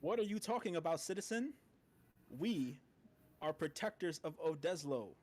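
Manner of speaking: stiff robotic guard. Acted. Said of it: "Try to sound less robotic".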